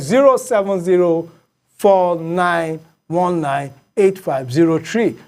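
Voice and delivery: slow, digit-by-digit phone number; measured, spaced-out digits; dictating a number. Real, not acted. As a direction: read it out slowly for callers to note down. Reading out phone number for callers.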